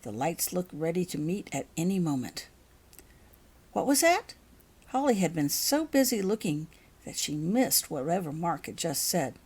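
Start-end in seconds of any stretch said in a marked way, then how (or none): 3.7-4.3 startled. A narrator's reading. Holly startled from her staring.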